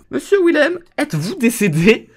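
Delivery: high, loud theatrical call. Acted. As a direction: hail someone who may not answer. Calling to possibly dead Willem.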